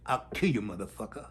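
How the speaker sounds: a hint of an enraged father; mock threat. Cop father threatening the nun, building loud. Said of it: "He goes".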